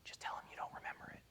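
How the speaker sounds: fast, urgent whisper; whispering coaching to a colleague on a call. Retold or imitated. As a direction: hiss the instruction so the help desk won't hear. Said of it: "I just whisper".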